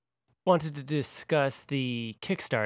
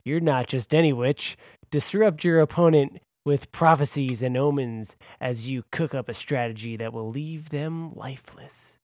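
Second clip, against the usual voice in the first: radio announcer voice. Pretend. Host announcing the witch class deck, dramatic radio voice. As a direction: intone it like an ominous trailer. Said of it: "the radio voice for that".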